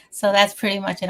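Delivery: slightly winded, breathy after talking; out of breath. Real, not acted. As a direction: speak a little short of breath. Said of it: "I'm a little out of breath".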